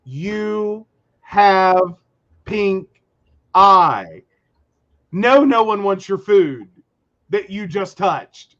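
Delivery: scolding a coworker with pink eye, exasperated. Retold or imitated. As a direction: retell telling a sick coworker off. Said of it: "And I'm like".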